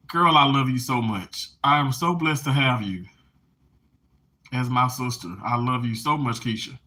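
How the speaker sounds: low, soft heartfelt thanks; tender. Real, not acted. Thanking her sister Keisha, tender.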